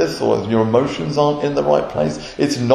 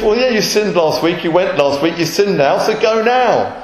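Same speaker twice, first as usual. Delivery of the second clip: brisk priest; 5 semitones higher, 3 dB louder than usual. Retold or imitated. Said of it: "And the priest".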